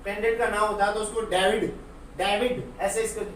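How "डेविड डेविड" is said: डेविड with a hard English D and short i; English-name pronunciation. Shown as a demonstration. Teacher showing how foreigners' names sound, English pronunciation. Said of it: "English में होता है या कोई foreigners का नाम".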